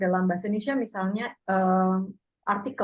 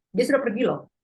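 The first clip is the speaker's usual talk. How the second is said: "Dia sudah pergi loh" firm, slightly higher; stating a fact; 3 semitones higher than usual. Shown as a demonstration. Teacher demonstrating loh stressing a fact. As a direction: point out firmly he's gone. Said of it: "menekankan fakta".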